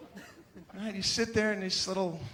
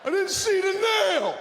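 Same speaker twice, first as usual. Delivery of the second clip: furious father yelling. Retold or imitated. Father screams at his son over a flat bike tire, furious shout. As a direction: blast it like an enraged dad. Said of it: "my immediate reaction is to yell".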